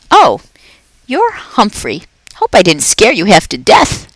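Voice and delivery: a jolly night janitor chatting to a pet; upbeat, chatty custodian; Aldo the cheerful janitor. Acted.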